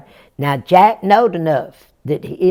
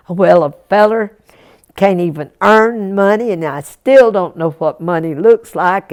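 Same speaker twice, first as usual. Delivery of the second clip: mild grumble; 3 semitones higher, 5 dB louder than usual. Acted. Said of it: "a mumbling and a grumbling".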